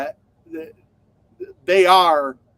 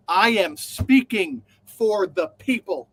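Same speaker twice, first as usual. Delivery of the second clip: slow, pompous proclamation; mocking a grand public statement, slowly, building louder; hammed-up speechmaker voice, louder at the end; mock grand speech; 4 semitones higher, 3 dB louder, slower than usual. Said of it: "she turned into this whole".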